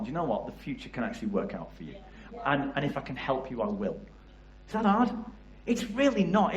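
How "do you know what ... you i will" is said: tender reassurance. Retold or imitated. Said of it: "tell someone".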